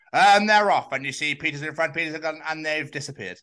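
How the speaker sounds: high, loud sports commentator; mock commentator. Podcaster imitating a marathon commentator, excited. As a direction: call the race start like a commentator. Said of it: "So what does it sound like?".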